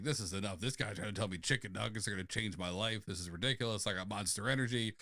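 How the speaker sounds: low, soft muttering; mock fed-up grumble; grumbling dismissal. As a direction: grouse to yourself on the way out. Brian grumbling as he leaves.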